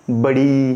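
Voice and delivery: बड़ी with a long held ई; long ई sound, held; drawn-out vowel. Shown as a demonstration. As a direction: stretch the ई slowly. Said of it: "देख रहा हूँ मैं खींच कैसे रहा हूँ".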